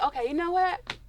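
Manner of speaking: sassy dismissal. Retold or imitated. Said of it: "I'm like".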